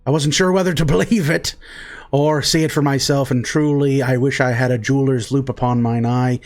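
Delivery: a lightly voiced flattering old dwarf, unhurried; a hint of a folksy dwarf laying on flattery; charming dwarf. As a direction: lay on the charm like a smooth-talking dwarf merchant.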